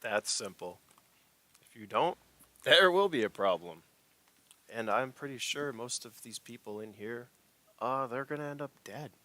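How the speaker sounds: lightly voiced enforcer laying out terms; a hint of a villain giving an ultimatum; menacing corporate agent. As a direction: deliver a measured threat, with pauses. Game master plays corporate agent.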